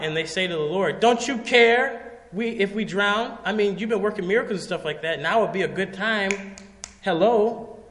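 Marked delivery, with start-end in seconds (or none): 1.0-7.8 higher-pitched, acted indignant panic; mock the disciples' frantic plea; freaking out. Disciples pleading with the Lord as they drown, acted freak-out. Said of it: "these guys are freaking out".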